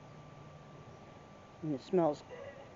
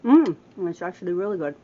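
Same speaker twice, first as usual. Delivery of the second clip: pleasantly surprised; 11 dB louder than usual. Real, not acted.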